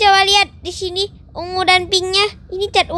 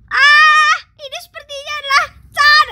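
surprised discovery; 6 semitones higher, 3 dB louder than usual. Acted. Character discovers paint flood.

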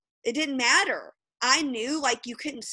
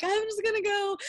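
defeated; 10 semitones higher than usual. Retold or imitated. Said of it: "when I was like".

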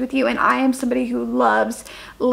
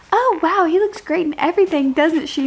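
flirty sales lady; 4 semitones higher than usual. Retold or imitated.

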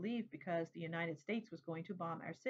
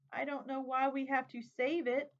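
put-on upset child; 5 semitones higher, 4 dB louder than usual. A narrator's reading. Upset child argues with father.

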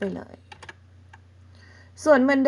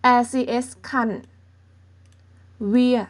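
Thai-accented reading; much slower than usual. Shown as a demonstration. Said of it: "เพิ่งจะอ่านสำเนียงคนไทยนะคะ".

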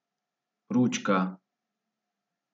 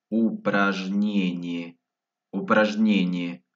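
slowed-down word. Shown as a demonstration. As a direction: stretch each syllable for learners. Word repeated slowly for learners.

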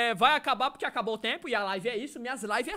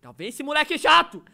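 loud annoyed shout; annoyed yell; 6 dB louder than usual. Acted. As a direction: yell it at the pest. Dubbing girls scolding Punk Boy.

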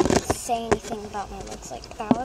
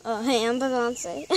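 lightly voiced singer; 6 dB louder than usual. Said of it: "I'm gonna first be Beyonce".

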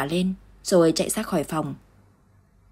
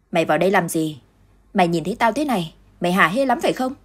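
angry lashing out; 3 dB louder than usual. Acted. Dung lashes out at Lượm.

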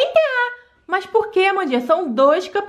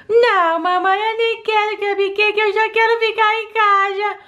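put-on whiny little girl; 5 semitones higher than usual. Doll child refusing cupcake.

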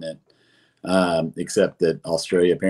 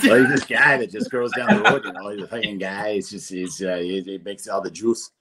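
Boston accent. Shown as a demonstration. Guest explaining who Juice Lord is on request, put-on Boston accent. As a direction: do your best casual Boston accent. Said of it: "who Juice Lord is in his best Boston accent".

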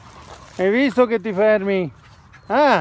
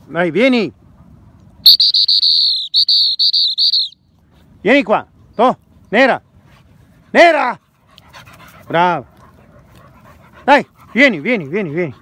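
talking to a dog. Real, not acted. Calling the dog outdoors. (richiamo al cane, forte e acuto)

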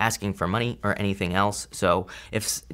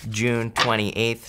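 breathless, catching breath; slower than usual. Real, not acted. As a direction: speak while winded. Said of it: "I'm out of breath".

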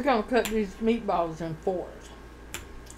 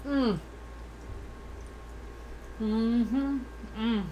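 humming while chewing food; muffled through mouthful of pasta; mouth full, chewing; 6 dB quieter, much slower than usual. Real, not acted. Seen 4: Chewing forkful of spaghetti; bread only held, bitten later at +5.

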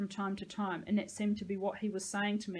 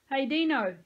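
taunting; 5 semitones higher, 7 dB louder than usual. Acted. Peyton taunting Dean.

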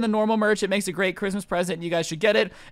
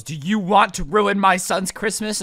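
slow, pointed demand; indignant customer; 4 dB louder, slower than usual. Retold or imitated. Irate mom confronting the store manager over a toy, indignant. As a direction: imitate an outraged customer, drawing the words out.

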